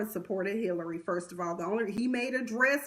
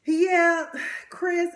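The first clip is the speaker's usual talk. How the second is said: loud yeah; 6 semitones higher, 6 dB louder than usual. Real, not acted. Sudden loud agreement mid-recap.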